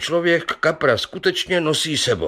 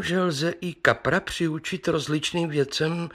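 usual speaking voice

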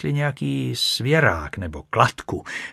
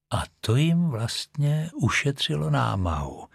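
musing, slightly higher voice; thoughtful; 4 semitones higher, 3 dB quieter than usual. Acted. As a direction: say it as if pondering aloud. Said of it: "řekl Holmes zamyšleně".

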